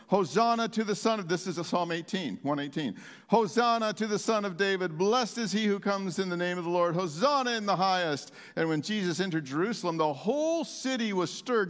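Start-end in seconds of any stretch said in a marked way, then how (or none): 0.1-1.3 mild acted shout. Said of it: "were shouting". 3.3-8.3 slightly lifted, ringing acclamation; mild acted shout. Crowds hailing the Son of David, mild acted shout. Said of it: "were shouting".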